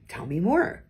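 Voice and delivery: gently curious, rising at the end. Shown as a demonstration. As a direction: invite them to go on, curious. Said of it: "Notice that was said with curiosity".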